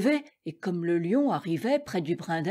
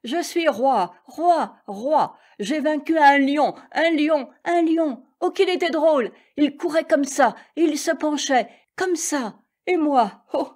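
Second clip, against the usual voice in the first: victory joy; 6 semitones higher than usual. A narrator's reading. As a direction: crow it out in triumph. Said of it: "danser de joie".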